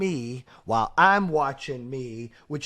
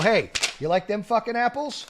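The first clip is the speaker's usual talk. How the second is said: higher, cocky mock jeer; gloating taunt; 7 semitones higher, 4 dB louder than usual. Host taunting family who doubted his business, cocky gloat. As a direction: rub it in the doubters' faces. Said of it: "So I can go".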